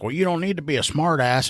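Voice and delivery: offended caller. Retold or imitated. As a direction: take offence in her voice. Caller snaps back.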